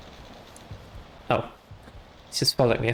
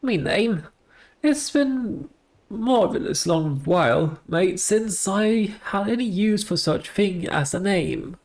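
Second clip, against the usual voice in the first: ghostly gardener voice; 3 semitones higher than usual. Acted. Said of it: "the ghostly voice of a headless gardener".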